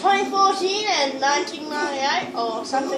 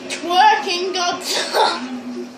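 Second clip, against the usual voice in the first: slow laughing announcement; 3 semitones higher, much slower than usual. Real, not acted. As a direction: giggle it out slowly. Showing toy, laugh heard.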